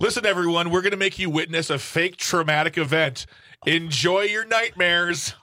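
mock announcer. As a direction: announce it brightly, stretching the last words. Mock announcement of fake crash drill.

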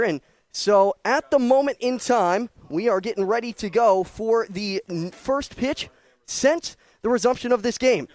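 breathing heavily between phrases; winded after hauling a tarp pole. Real, not acted. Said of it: "I do apologize for the heavy breathing".

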